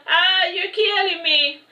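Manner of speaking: high, slow, drawn-out cry of pain; pained yell. Acted. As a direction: cry out as if being clubbed to death. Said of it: "I yelled".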